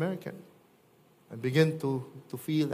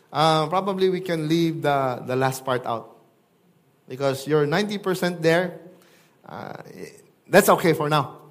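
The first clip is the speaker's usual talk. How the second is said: appeasing; 6 dB louder than usual. Pretend. Mock compromising Jesus continues.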